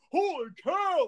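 high-pitched mock awe; imitated amazement. A host imitating the co-host who grabbed his bicep, mock-amazed. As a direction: mimic an amazed friend's exclamation. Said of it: "and then he's like".

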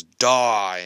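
mock killer's yell on one word; Michael Myers yell. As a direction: punch it out like a brief yell. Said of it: "where Michael Myers yells".

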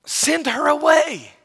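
mildly whiny retold request; disciples' complaint. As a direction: play put-out followers asking for her removal. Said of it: "the disciples say to Jesus".

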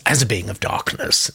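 a hint of a put-on accent; Lex accent. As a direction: lightly imitate a listener's accent for a being of darkness. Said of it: "said that with a Lex accent".

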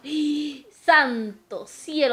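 slow, drawn-out gasp of alarm; mock-shocked, stretched-out exclamation; retold shock. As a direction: draw out a startled appeal to heaven. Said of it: "Dije yo".

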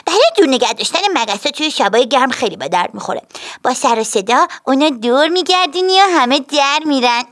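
put-on high, proud little girl; lightly voiced girl boasting about her tail; girl explaining. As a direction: show off the tail's use. Betty explains tail's use.

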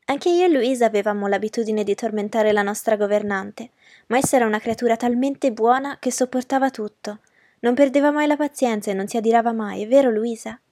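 put-on a light touch of a sweet little girl's voice; gently childlike and sweet, only lightly voiced; sweet childish voice. Young Amy Ashton chatting to the guests, with a hint of a sweet childish voice. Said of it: "con la sua voce dolce e infantile".

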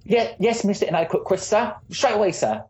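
put-on high, eager servant accent; bow and scrape in a servant accent; Dickensian servant accent. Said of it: "Charles Dickens, exactly like that".

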